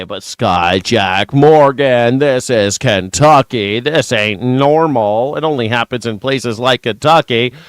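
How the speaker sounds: imagined viewer objection. Retold or imitated. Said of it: "you might say".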